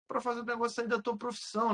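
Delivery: usual speaking voice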